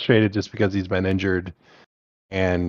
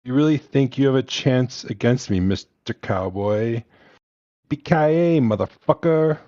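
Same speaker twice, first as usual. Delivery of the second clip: put-on German accent; 4 semitones higher than usual. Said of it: "this is gonna be a terrible German accent".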